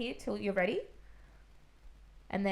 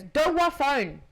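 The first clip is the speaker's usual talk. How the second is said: put-on high, slow toddler babble; little kid's garbled plea, higher and louder; 5 semitones higher, 6 dB louder, much slower than usual. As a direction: mimic a three-year-old's mangled words. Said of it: "he goes".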